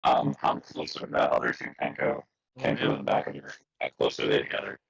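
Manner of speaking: garbled robotic connection; broken-up voice over a bad line; call dropping out. Real, not acted. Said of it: "I can't understand you at all".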